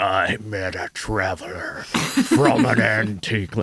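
put-on gravelly, rough voice. Recalling the poem's trailer reading, imitating Bryan Cranston: gravelly voice. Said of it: "he's got that gravelly voice".

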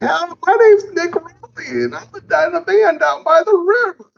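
very high, squeaky, silly, playful character voice. Retelling a voice done while sick with COVID, in the Nick Riley voice. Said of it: "when I do the voice".

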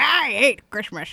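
mushy, toothless cartoon grump. Recalling turning jaded about the holidays, in a Grinch impersonation. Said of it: "I was trying to do a Grinch impersonation".

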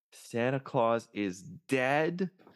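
acted, high, upset, insistent child outburst. Speaker retells shouting as an upset child in line to see Santa, retelling a childhood shout. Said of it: "I started to shout".

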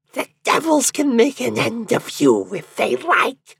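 piercing, very high shriek. Narrator reading a tale, a fleeing woman cries out: shrieking. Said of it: "she shrieked".

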